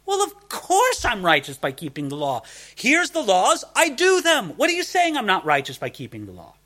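mock-indignant Pharisee, pitch rising; indignant Saul. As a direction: play the offended Pharisee, sure of himself. Preacher voices Saul's indignation.

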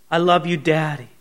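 low, tender declaration; endearing. Shown as a demonstration. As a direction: speak with gentle, unhurried affection. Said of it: "in the endearing way that a child".

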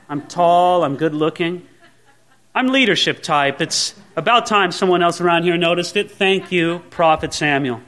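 understated self-important matter-of-factness; proud. Acted. Saul answering Samuel as if proud of himself, smug. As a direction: calmly take the praise as overdue. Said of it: "If Saul had a proud heart".

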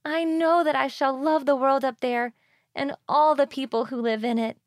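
put-on high, eager young girl voice; young mermaid longing. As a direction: dream aloud like a young girl. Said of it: "said she".

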